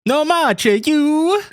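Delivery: put-on over-the-top Italian accent. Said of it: "Can you do an Italian accent?".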